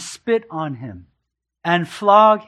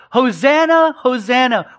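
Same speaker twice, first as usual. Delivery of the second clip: higher, raised joyful acclaim; shouted hosanna; 4 semitones higher, 5 dB louder than usual. Retold or imitated. Preacher recalling the crowd's welcome, a mild joyful shout. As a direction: echo the crowd's glad cheer. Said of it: "who had shouted".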